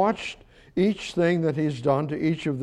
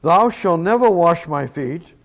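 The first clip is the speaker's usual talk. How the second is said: "never" lifted and louder; stress on never; 4 dB louder than usual. Retold or imitated. Peter refusing Jesus, stressing never. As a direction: lean on "never" in "Thou shalt never wash my feet". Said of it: "Peter saith unto him".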